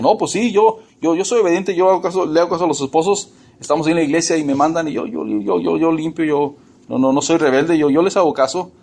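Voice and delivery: preacher mimicking a wife insisting she obeys, hammed-up; mock self-righteous wife.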